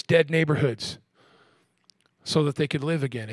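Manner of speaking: low, restrained preaching; subdued prophetic declaration; solemn scripture reading. Real, not acted. Verse read again, subdued.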